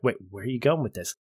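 a quick, suspicious question; wary objection. Retold or imitated. Ross objecting to Kaffee, quick and wary. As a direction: cut in, wary of the trap. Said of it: "responds is like".

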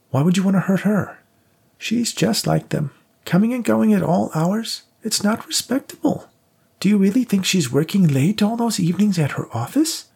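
put-on high, scornful old woman. A narrator's reading. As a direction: sneer it as a bitter old lady. Rose's voice in narration.

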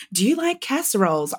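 lightly imitated digital assistant; Siri voice. Trolling players on American servers, mock Siri voice. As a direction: do a mild Siri-style greeting. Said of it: "I do my Siri voice a lot".

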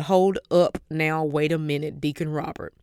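retold disbelief, stretching the opening words; stunned challenge. Woman stopping the deacon who knows her business, stunned.

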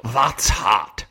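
hammed-up Scottish accent in a podcast bit; mock Scottish accent. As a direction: say it like a hammed-up Scotsman. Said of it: "like, Scottish".

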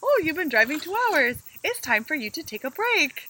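lightly imitating a friendly Kiwi GPS; Kiwi GPS accent. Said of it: "in her little accent".

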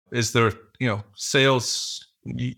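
ordinary delivery

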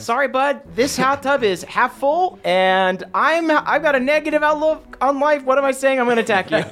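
hammed-up taunt. Acted one-liner before attacking.

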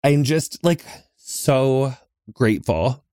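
slow, near-tearful gratitude; fighting to keep it together; holding back tears. Real, not acted. Host thanking listeners, on the verge of tears. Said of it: "I don't even wanna get emotional, but I might".

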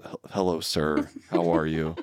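stammering, lightly voiced timid student greeting a child; little nervous voice. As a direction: stumble over the hello like a shy student. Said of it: "in his little nervous voice".

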